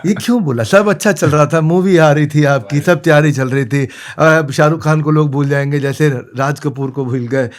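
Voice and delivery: loud, hammed-up complaint; mock indignation. Interviewer lightening the mood for a viral reel, mock indignation. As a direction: scold him in playful outrage. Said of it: "real genuine viral reel निकालनी है".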